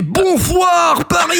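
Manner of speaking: Bonsoir Paris with a lisped s, drawn out high. Retold or imitated. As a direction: shout Bonsoir Paris slowly, lisping the s. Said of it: "il a un cheveu sur la langue".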